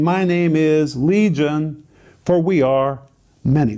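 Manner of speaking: a hint of a slow demon voice; lightly voiced demon naming itself; demon answering. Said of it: "the demon answered".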